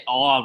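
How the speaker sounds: "aw" hit hard, an open Jersey aw. Shown as a demonstration. S1 imitates S0's Jersey vowel. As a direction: stretch out "aw" like a Jersey local. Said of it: "really hard like a Jersey person".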